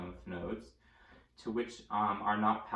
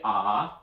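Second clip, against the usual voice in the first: demonstrating aah; 3 semitones lower, 9 dB louder than usual. Shown as a demonstration. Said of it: "stick out your tongue and say".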